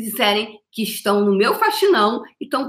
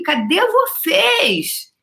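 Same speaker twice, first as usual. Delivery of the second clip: calling out; 11 semitones higher, much slower than usual. Acted. Calling out crowd.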